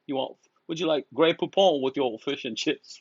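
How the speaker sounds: lightly mocking British accent; put-on British. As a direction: offer it like a hammed-up British host. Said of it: "fucking became British overnight".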